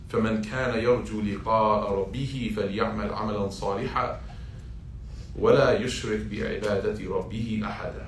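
fast flowing recited Arabic; Quran recitation. Acted. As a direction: recite it in one smooth breath.

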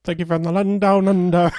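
high, hammed-up Australian accent; mock Australian accent. Co-host echoing the listener's sign-off, mock Australian accent. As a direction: echo it in a high fake Aussie accent. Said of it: "not expect me to hear it like that".

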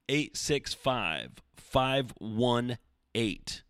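phone number in short groups; measured read-out of digits, moving on fairly promptly. Shown as a demonstration. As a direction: give the digits in groups with brief gaps. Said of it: "Sorry, that was too fast".

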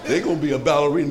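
quick, laughing mock insistence; mock pushy mother, laughing. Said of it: "I don't want that for my child".

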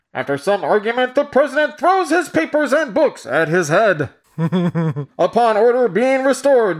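dramatic narrator. Acted. Reading old film narration aloud.

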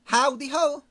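high, loud cartoon greeting; Mister Hanky. Polish correspondent greeting the hosts, high cartoon-character voice. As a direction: call it out as a chirpy cartoon character. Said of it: "is it Mister Hanky, the Christmas Pole".

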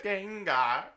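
high rising creature call; Gengar cry. Pretend. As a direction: call the name out like the Pokemon.

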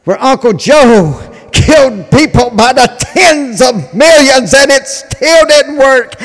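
loud, high, building rant; rally speech. Real, not acted. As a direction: hammer it home to the crowd. Fired-up political rant.

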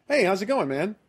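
casual greeting. Retold or imitated. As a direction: toss it out like a friendly party greeting.

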